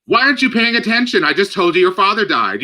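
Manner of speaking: imitating a stepmother annoyed the child is not listening; mock stern stepmother. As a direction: scold the grieving child as the cold guardian.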